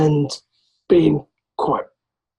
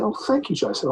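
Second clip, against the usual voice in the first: higher, softer polite thank-you; imitated referee thanks; 6 semitones higher, 5 dB quieter than usual. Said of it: "like that".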